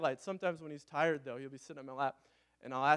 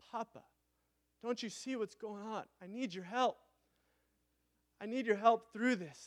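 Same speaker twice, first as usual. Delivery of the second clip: put-on pleading child to father; 5 semitones higher than usual. Shown as a demonstration. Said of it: "it basically is so personal".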